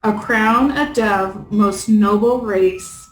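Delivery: slow, measured verse recital; poem reading. Acted. Player reads a puzzle poem aloud, measured recital. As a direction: read the riddle out line by line.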